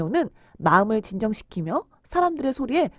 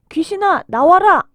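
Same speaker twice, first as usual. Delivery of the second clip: loud, raised commanding cry; stern rebuke; 6 semitones higher, 8 dB louder, slower than usual. A narrator's reading. Jesus orders the demon out of a man, stern rebuke. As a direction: rebuke with full authority, loudly. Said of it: "하면서 꾸짖으시니까".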